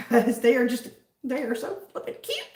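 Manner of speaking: high, giggly gushing; real giddy excitement; fangirling. Real, not acted. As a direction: gush breathlessly over something cute, then whew. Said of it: "I'm a little fangirling right now".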